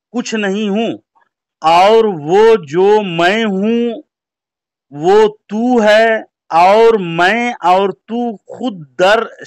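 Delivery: very slow, deliberate reading; slow and careful. Shown as a demonstration. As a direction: read each phrase slowly and clearly. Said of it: "बहुत यानी धीरे धीरे इबारत को मुकम्मल पढ़े".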